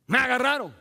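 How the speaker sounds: high, loud cry of being caught; acted alarm. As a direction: play someone suddenly found out. Acts out someone caught. (alarma fingida)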